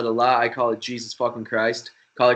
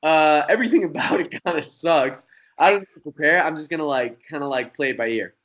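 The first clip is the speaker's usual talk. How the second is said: lightly mocking his own smug younger self; arrogant; 3 semitones higher than usual. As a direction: brush it all off like a know-it-all. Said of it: "very arrogantly, I was like".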